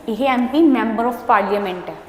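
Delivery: slow, careful explaining. Shown as a demonstration. Teacher slowly explaining MP to her pupils. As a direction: spell out the abbreviation slowly. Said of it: "ਨਾਲ ਨਾਲ ਬੋਲ ਵੀ ਰਹੀ ਹਾਂ".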